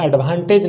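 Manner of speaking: एडवांटेज said the wrong way, as learners often say it; wrong advantage. Shown as a demonstration. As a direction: give the wrong version of एडवांटेज. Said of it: "Don't say advantage".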